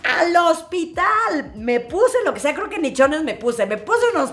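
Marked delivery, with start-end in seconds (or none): 0.0-1.5 panicked cry. Retold or imitated. Mother sees blood, panics.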